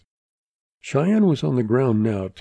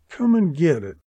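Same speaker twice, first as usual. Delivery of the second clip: raised, rasped gunfighter's dare; taunting rasp, pitched up; rasped challenge; 6 semitones higher than usual. A narrator's reading. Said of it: "he rasped".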